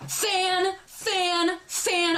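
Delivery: high, held mock screech; retold screech. Pointing at the girl who is a fan, high mock screech. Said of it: "I am screeching that she is a fucking fan".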